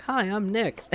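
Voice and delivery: high-pitched mock ad cheer; all chipper. Mimicking a guy in a commercial, chipper. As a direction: imitate a perky commercial pitchman. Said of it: "he's all chipper".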